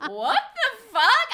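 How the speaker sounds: loud, high, drawn-out mock shock; hammed-up slow incredulous exclamation; outraged disbelief. Retelling two friends' reaction to the snub, outraged disbelief.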